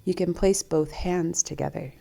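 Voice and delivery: calm meditation guide, long pauses between phrases; guided meditation. Acted. Host guiding listeners to tune into breath and heart, calm meditation voice. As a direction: guide them gently inward, leaving space to breathe.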